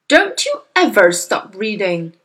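a loud, sharp snap at his daughter; snapping father. Acted. Angry father snapping at his reading daughter. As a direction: bite the words off at her. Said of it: "he snapped at her".

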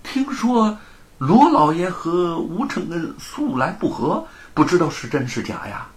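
fish for gossip with a smile; sly smiling official. A narrator's reading. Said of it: "县官知趣地笑道说". (知县赔笑试探)

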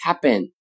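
happen with the p softened toward b, /xæpən/; American happen. Shown as a demonstration. Teacher shows the relaxed American happen. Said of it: "常常会读成".

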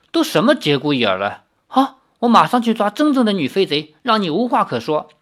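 exasperated. Acted. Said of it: "李逍遥哭笑不得".

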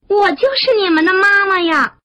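high, emphatic motherly declaration; loud calling. A narrator's reading. Frog revealing herself to her tadpoles, high calling. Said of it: "大声地喊".

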